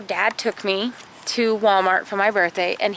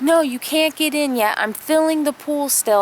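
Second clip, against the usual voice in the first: put-on higher, firm older sister telling him to wait; big sister keeping her little brother out of the pool, firm and higher; retold bossy big sister; 6 semitones higher than usual.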